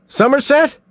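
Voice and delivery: high shouted call with a rising question; alarmed shout; shouted name. A narrator's reading. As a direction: yell his partner's name across the lot. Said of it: "Mills shouted".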